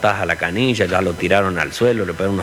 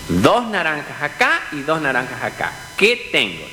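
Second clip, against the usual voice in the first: lightly acted teacher, pitched up; schoolteacher quizzing; 5 semitones higher than usual. Teacher asking pupils to count oranges, quizzing. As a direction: put the sum clearly to the class. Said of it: "la maestra".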